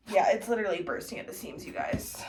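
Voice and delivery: winded after packing; breathless from packing; out of breath. Real, not acted. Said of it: "And I'm out of breath".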